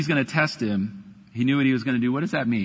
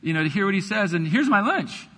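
lightly voiced sweet eager child, a bit higher; sweet little kid voice; 4 semitones higher than usual. Pastor imagines the boy handing Andrew lunch, sweet kid voice. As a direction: play a cute churchy kid offering his lunch. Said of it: "Did the kid come over and go".

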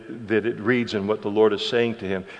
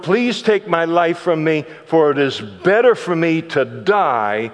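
anguished plea. Retold or imitated. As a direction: beg God to end his life. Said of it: "And he's so upset now".

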